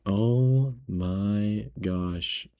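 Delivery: drawn-out, very slow oh my gosh; exasperated. Retold or imitated. Cashier reacting to rude customer, slow exasperated. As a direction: stretch it out in disbelief. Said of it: "And I was like".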